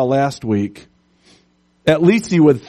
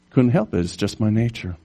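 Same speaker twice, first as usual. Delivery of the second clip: scorpion voice; 4 semitones lower, 4 dB quieter, faster than usual. Acted. Scorpion shrugs off killing.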